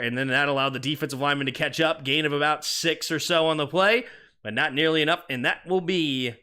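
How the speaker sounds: brisk, steady live game call; play-by-play. Acted. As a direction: narrate the play as it unfolds.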